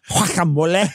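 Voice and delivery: Guacamole said the Spanish way, wah-kah-MO-leh; mock Spanish accent with a rise at the end. Imitating the coworker's sudden Spanish accent. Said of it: "she drops into the deepest accent".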